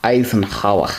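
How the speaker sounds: name in a slight put-on accent, throaty H in Eisenhower; lightly accented, in separate chunks; involuntary accent. Real, not acted. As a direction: slip into a mild accent for the name. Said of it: "I can't say it without the accent".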